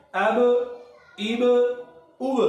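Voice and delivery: اب ایب اوب with the ب bounced and shaken; qalqalah on ba. Shown as a demonstration. Teacher models bouncing ب for trainee teachers. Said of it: "آواز کو ہلا کے پڑھنا".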